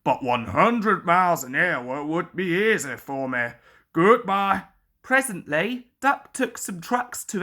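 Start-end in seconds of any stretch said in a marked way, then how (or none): 0.0-4.7 mock modest. A narrator's reading. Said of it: "Gordon continued modestly".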